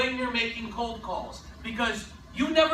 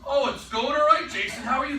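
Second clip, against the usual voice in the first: high, polite answer, a touch unsure; reply as if you might know him; lightly voiced polite prospect; prospect playing along; 3 semitones higher, 4 dB louder than usual. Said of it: "they don't wanna be rude".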